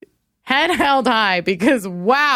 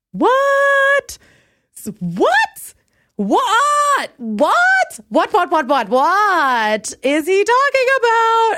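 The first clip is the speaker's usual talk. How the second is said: much higher, louder what's of disbelief; squeaky disbelief; 11 semitones higher, 4 dB louder, much slower than usual. Real, not acted. Reacting to the ex's baffling text with high disbelief. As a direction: shriek what over and over in disbelief.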